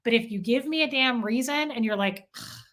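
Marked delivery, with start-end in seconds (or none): 2.4-2.6 imitated scornful huff; short breathy scoff of disgust; disgusted noise. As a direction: mimic someone huffing at you. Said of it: "I hate that face".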